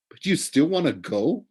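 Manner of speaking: can't believe he still wants it; amazed. A narrator's reading. Percy questioning Grover, amazed and disbelieving. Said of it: "I said, amazed".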